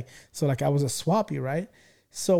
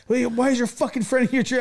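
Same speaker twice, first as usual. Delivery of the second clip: high, louder mock scolding; an imitated mom, pitched up and scolding; mom's angry question; 9 semitones higher, 4 dB louder than usual. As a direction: snap at him like an angry mom. Mom angrily asks about friend.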